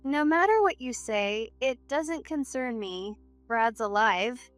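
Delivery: cold dismissal. Acted. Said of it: "Melissa gave a cold laugh".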